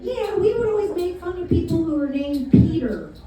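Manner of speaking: imitating mom. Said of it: "so my mom would say".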